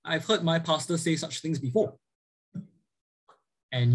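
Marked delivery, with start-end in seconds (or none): 0.0-2.0 a follower musing, lightly voiced, high on the hmm; half-mock credulous listener; voicing a follower. Pastor voicing a follower fooled by myths, lightly mimicked. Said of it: "they're gonna say".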